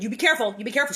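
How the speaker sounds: quoting Sharon. Retold or imitated. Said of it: "Sharon said".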